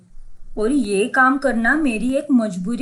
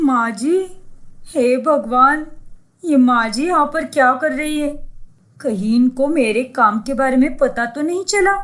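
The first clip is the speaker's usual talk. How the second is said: panicked gasp. Acted. Urfi panics on seeing her mother-in-law in town. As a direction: panic at being caught.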